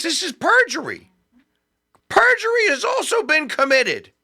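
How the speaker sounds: high, indignant declaration; high-pitched outrage at the FBI; outraged. Real, not acted. Outraged accusation.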